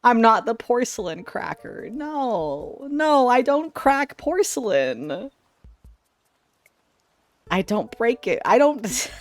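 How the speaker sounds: high, slow whiny denial; mock defensive. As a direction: whine the denial in falsetto.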